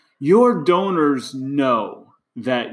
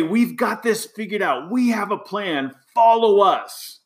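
higher, puffed-up confident proclamation; mock bold leader; 5 semitones higher than usual. Coach imitating leaders telling donors to follow, hammed-up boldness. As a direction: declare it like a leader who never doubts. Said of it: "Like, to be bold".

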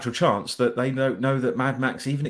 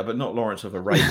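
a lower, knowing hint that it's a different Lawrence of Arabia; knowing innuendo; 3 semitones lower than usual. Pretend. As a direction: wink at the dirty version, stress on not. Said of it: "that was porn".

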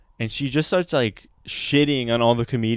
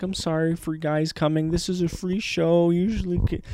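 slightly softer, higher apologetic host; mock apologetic; 5 semitones higher, 4 dB quieter than usual. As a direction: imitate a host sheepishly excusing the show. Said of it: "like, apologetic".

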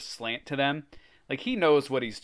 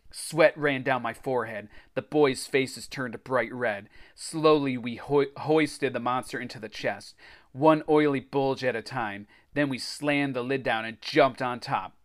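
animated adventure storytelling; story narration. A narrator's reading. Reader tells of racing to the beach, story narration. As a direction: read it like a kids' adventure book.

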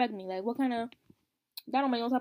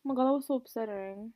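whispered, soft and breathy; 8 dB quieter than usual. Real, not acted. Upset that a TikToker was bullied off, whispering. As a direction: drop to a whisper.

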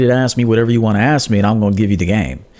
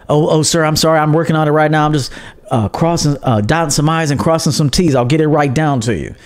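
lightly voiced, deferential underling, a bit higher; apologetic employee; 4 semitones higher than usual. Employee excusing herself to her boss, mock-deferential. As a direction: mimic eager-to-please stammering to a superior. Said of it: "She don't talk like that to her boss".

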